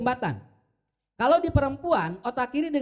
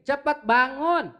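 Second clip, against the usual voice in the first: a mock-scolding mother rousing a late child; nagging mother; 2 semitones higher, slower than usual. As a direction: demand the child get up now. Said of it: "Dina otak murang caranya begini".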